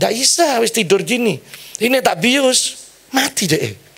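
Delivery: high-pitched imitation of an alarmed doctor; retold doctor's refusal. Anaesthetist refuses to sedate the sleeping patient, high retold alarm.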